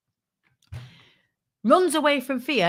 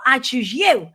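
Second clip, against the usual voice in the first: louder, calling out like Ash throwing a Poke Ball; Ash calling a Pokemon; 2 semitones higher, 6 dB louder, slower than usual. Pretend. Ash picking a contact at a networking event, calling out. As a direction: call it out like a Pokemon trainer. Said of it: "and I'm Ash".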